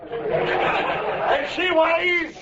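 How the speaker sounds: slow, suspenseful reveal then high shout; announcer stretching the reveal; drawn-out announcement. Acted. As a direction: build the suspense. Announcing the weight.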